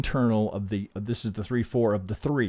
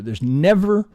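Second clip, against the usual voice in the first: never punched louder and higher; stress on never; 5 semitones higher, 8 dB louder, slower than usual. Shown as a demonstration. Trader stressing to students there's never a need. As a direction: lean hard into never, pushing the point. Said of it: "did I say ever?".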